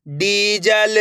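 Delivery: डीजल with डी held long. Shown as a demonstration. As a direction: stretch the ee in डीजल. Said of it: "मेरे साथ साथ इनको repeat करना है".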